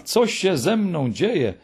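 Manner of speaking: high, slow, wondering question; puzzled unease. A narrator's reading. Engineer baffled by his own change of heart, uneasy wonder. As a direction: ask yourself, drawn-out and bewildered. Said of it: "pytał siebie zaniepokojony".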